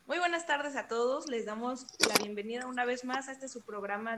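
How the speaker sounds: upbeat radio announcer welcome; host the show on air. Acted.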